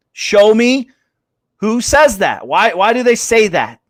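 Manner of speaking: retold schoolroom defiance; defiant challenge. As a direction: challenge the teacher, punching each question. Retold argument with teacher.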